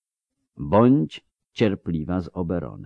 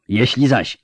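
much higher, louder bitter shout; 6 semitones higher, 5 dB louder than usual. A narrator's reading. Ciri shouting her bitter mockery at the elf, loud. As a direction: hurl the crude mockery at him. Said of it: "krzyknęła".

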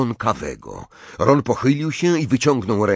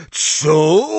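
loud, higher "what?" roar; roared question; 5 semitones higher, 5 dB louder than usual. A narrator's reading. Hagrid can't hear Harry and roars back. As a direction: bellow it, not having heard. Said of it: "ryknął Hagrid".

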